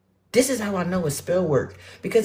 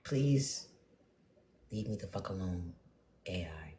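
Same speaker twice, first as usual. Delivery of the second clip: fed-up plea; 11 semitones lower, 16 dB quieter than usual. Real, not acted. Pleading with the AI listening.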